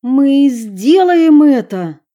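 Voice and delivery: loud, angry defiance. Acted. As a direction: throw it back defiantly. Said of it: "злобно бросила Эмили".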